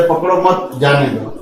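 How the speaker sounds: "मत जाने दो" run together as one phrase; "पकड़ो", then "मत जाने दो" in one breath; intended comma placement. Shown as a demonstration. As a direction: keep "मत" joined to "जाने दो". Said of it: "अल्प विराम अलग जगह पे लग गया".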